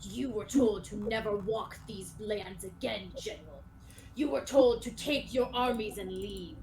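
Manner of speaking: lightly acted formal warning, measured; stern skeleton knight. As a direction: deliver a solemn ultimatum to an old enemy. Game master voices knight's grave warning.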